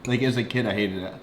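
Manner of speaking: talking while chewing; words through a mouthful; mouth full. Real, not acted. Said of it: "So am I".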